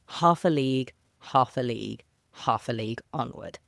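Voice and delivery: galloping dactyls, weight on each "half"; stressed first syllable. Shown as a demonstration. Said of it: "I emphasize the words that way".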